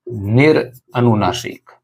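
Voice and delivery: निरअनुनासिक said slowly, each syllable stretched; slow, drawn out. Shown as a demonstration. Teacher dictating the term to students, slowly. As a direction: spell out निरअनुनासिक slowly for the class. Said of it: "एक है".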